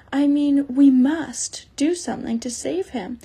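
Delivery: urgent plea. Acted. Lucy begging Mr Beaver to save the faun, urgent. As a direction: beg them to act now.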